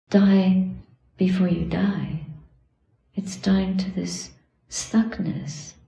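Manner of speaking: measured, contemplative talk in short phrases; meditative dharma teaching. Real, not acted. Teacher urging students to die to anger and self, contemplative. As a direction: let each phrase settle in a pause.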